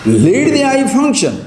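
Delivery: high, loud and slow; ringing command. Real, not acted. Guru commanding the audience to let the senses work, loud slow proclamation. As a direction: call it out like a decree. Guru urging his listeners.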